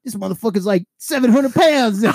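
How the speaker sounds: high, loud and slowed on the weight; mock exclamation of disbelief; exasperated retold outburst. Removal guy calling his office for backup, exasperated. Retold phone call for help.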